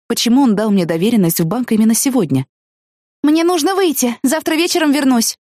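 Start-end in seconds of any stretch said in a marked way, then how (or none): 3.2-5.4 shouted to parents. Acted. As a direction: call back over your shoulder, leaving fast. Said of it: "крикнула я родителям".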